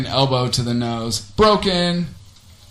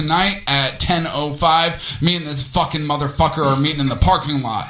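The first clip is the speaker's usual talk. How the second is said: fight promo announcer. Pretend.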